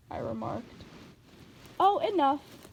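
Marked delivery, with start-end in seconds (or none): 1.8-2.7 put-on high, lilting old auntie; sweet old lady voice. A narrator's reading. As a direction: coax like a kindly old aunt. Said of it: "Auntie Em said".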